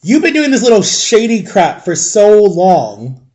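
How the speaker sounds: retold indignant tirade, emphatic; fired-up reenacted telling-off; letting him have it. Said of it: "I let this principal had it".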